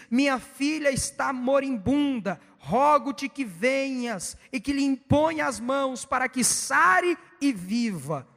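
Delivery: slow, emphatic pulpit reading; scripture reading. Real, not acted. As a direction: proclaim the verse, stretching each phrase out slowly. Reads scripture aloud solemnly. (leitura bíblica pausada e enfática)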